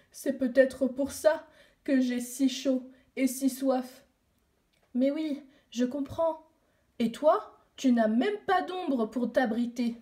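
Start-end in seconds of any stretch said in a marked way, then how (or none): 0.1-4.0 mild laugh in the voice; en riant. Acted. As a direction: chuckle through the words. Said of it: "Baobab s'est mis à rire". (petit rire dans la voix)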